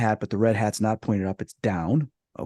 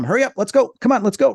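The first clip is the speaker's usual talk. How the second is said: higher, urgent mock orders; hurrying little folk; 11 semitones higher, 4 dB louder than usual. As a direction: voice little creatures hurrying someone along. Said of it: "like, telling my mom".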